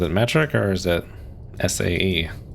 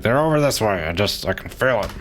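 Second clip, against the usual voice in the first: lightly voiced salty captain; a hint of an old sea captain; fishing boat captain; 4 semitones higher than usual. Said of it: "fishing boat captain at this point".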